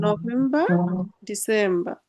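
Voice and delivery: নভেম্বর and ডিসেম্বর both ending in "ba"; dropped final R. Shown as a demonstration. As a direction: end নভেম্বর, ডিসেম্বর on an open a. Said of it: "রটা আর বলবেন না".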